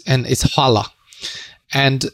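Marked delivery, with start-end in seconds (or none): 0.1-0.9 demonstrating hvala for learners; saying hvala. Shown as a demonstration. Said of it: "ask me how to say".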